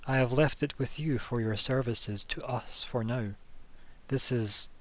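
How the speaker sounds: slow, firm rebuke; a touch of a stern official putting a foot down; stern reproach. Acted. The official silencing Adair, slow and firmly stern. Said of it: "puts her finger up to stop you talking".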